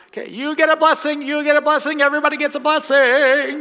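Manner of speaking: high, loud talk-show host giveaway; hammed-up Oprah giveaway voice; Oprah Winfrey impression. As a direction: shout it out like Oprah handing out prizes. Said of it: "did an Oprah Winfrey imitation".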